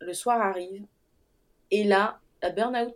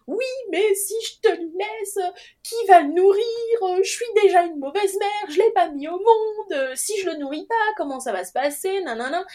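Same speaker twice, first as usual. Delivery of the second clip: sobbing worry; 10 semitones higher than usual. Retold or imitated. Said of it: "entrecoupé de sanglots incompréhensibles".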